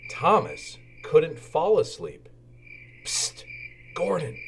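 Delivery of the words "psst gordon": soft, hushed call in the dark; whisper-ish, trying not to wake anyone; quiet night-time peep to a sleeping engine. A narrator's reading. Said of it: "Thomas peeped".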